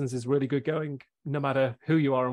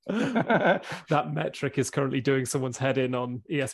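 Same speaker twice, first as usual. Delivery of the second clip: laughing; 5 dB louder than usual. Real, not acted. Joking while laughing.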